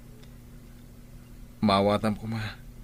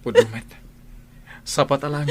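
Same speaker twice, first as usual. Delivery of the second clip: loud, defiant comeback; defiant retort; 4 semitones higher, 4 dB louder than usual. Acted. Husband shouts back at his wife, defiant. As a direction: throw it back in her face.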